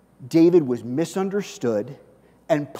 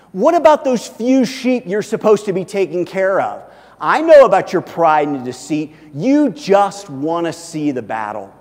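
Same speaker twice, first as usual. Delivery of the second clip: put-on loud, accusing older brother; angry scolding; 2 semitones higher, 9 dB louder than usual. A narrator's reading. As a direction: scold a younger brother at raised volume. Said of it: "he was angry".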